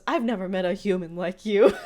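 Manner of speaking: imitating Mermando while cracking up; laughing mock merman. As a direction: giggle out the compliment. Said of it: "And he goes".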